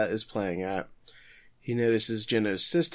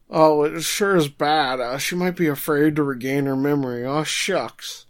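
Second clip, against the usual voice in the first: mock sweet villain; 4 semitones higher, 6 dB louder than usual. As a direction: ham up a fake-caring villain. Kazade voiced in a recap.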